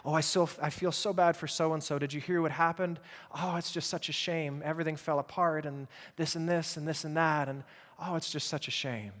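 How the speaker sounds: put-on sympathy, softening toward the end; mock compassion. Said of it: "Sometimes it sounds like compassion".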